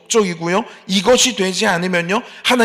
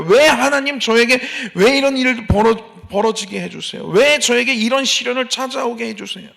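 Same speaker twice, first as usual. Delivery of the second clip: mock complaining; 4 semitones higher, 3 dB louder than usual. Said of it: "막 하나님을 원망합니다".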